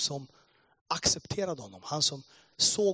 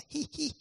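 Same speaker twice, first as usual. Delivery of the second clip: short mock giggle; imitated laughter; 12 semitones higher than usual. Pastor starting to laugh at an angry listener, imitated giggle. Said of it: "Han började garva".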